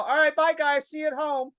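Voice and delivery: comic goodbye to ejected hecklers, sing-song; mock farewell. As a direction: wave the hecklers off sweetly. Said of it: "I'm all".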